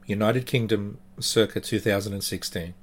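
steady, somber storytelling voice; story narration. A narrator's reading. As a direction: tell it like a creepy tale. Narrates the true ghost story.

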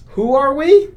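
high, loud posing cry; heroic shout. Acted. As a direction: announce it like a superhero team. Heroes shout their pose line.

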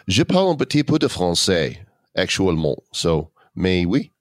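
casual French on request; speaking French. Shown as a demonstration. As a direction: answer in a bit of French. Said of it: "What does your French accent sound like?".

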